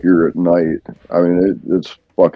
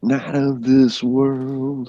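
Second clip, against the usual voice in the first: movie trailer voice; 7 semitones higher, 5 dB quieter, much slower than usual. Pretend. Dramatic tagline for Arctic Timberwolf.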